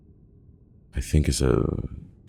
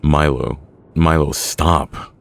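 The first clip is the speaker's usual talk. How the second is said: loud, urgent shout; screaming; 3 semitones higher, 7 dB louder than usual. A narrator's reading. John screaming at Milo to stop. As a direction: shout it out, drawing out the words. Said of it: "You can hear John screaming".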